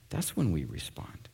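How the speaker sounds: slow, hushed whisper. Acted. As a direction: whisper it like a secret truth. Whisper theme, point made softly.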